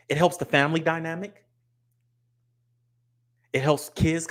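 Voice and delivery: mock politician's careful non-answer, spaced out with long pauses; rambling Kamala imitation. Streamer mocking how a candidate answers about dinner, lightly imitated rambling. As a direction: lightly mimic a politician stalling with measured, pause-filled obviousness. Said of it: "She'll be like".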